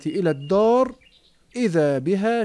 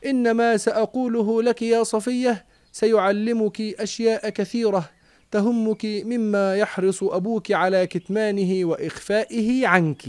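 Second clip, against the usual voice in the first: pleading small voice; 4 semitones higher than usual. Acted. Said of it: "يناديها متوسلا".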